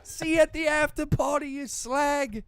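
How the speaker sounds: high, loud put-on Irish accent; hammed-up Irish cricket voice. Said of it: "Was that your Irish accent".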